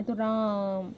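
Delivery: राम with the रा held long, म normal; drawn-out Raa. Shown as a demonstration. Teacher repeating the pluta example, रा held long. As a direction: stretch the रा of राम, keep म short. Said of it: "रा को लंबा खींच रहे हो और मो नॉर्मल है".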